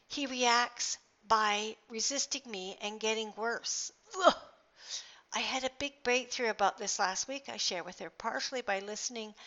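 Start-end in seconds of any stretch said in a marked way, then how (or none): 4.2-4.3 short groan of frustration; exasperated groan. Real, not acted. Speaker recalls her brother getting worse, exasperated groan. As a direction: let out a brief exasperated ugh.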